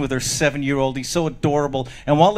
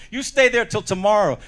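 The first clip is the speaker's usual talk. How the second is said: higher-pitched mock scolding; stern mother; 5 semitones higher than usual. Mother locking kid in his room, mock stern. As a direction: lay down the punishment firmly.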